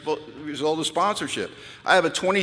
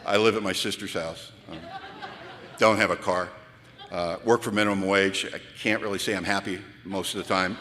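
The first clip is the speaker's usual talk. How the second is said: low, deflated, self-pitying newcomer mumble; pathetic low mumble; 7 semitones lower than usual. Retold or imitated. To the drinking newcomer, a low deflated mumble. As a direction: mumble it like a sad sack with nothing to offer.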